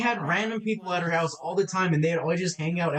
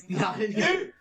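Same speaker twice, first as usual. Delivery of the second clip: laughing; 9 semitones higher than usual. Real, not acted. Laughs through his reply.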